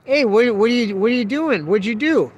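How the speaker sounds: loud, high, startled calling out to the back of the truck; high alarmed yell; alarmed shout. Retold or imitated. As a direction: yell it out, caught off guard. Yelling at man behind truck.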